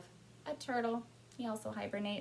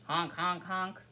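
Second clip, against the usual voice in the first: goose honking; 7 dB louder, slower than usual. A narrator's reading. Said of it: "And what do they say?".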